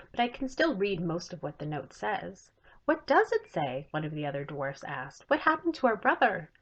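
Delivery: put-on lively read-aloud for children; story narration. A narrator's reading. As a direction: tell the story brightly to young listeners. Author reads her chapter book aloud.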